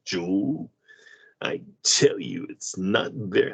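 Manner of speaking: lightly voiced, slow Heston drawl; Charlton Heston impression. Co-host doing his Heston impression for Joel, slow. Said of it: "That's a good impersonation".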